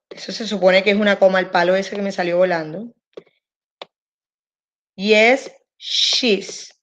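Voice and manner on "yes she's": she's nearly whispered; wrong example. Shown as a demonstration. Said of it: "Esto está incorrecto". (ejemplo incorrecto, casi susurrado)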